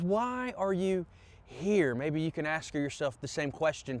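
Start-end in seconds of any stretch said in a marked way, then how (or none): 0.0-1.9 gentle voice of God. Acted. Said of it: "And God speaks to him and says".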